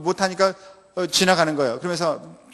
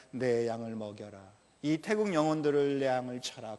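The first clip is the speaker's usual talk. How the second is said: God's soft command; 4 semitones lower, 10 dB quieter than usual. Acted. Preacher voices God's command.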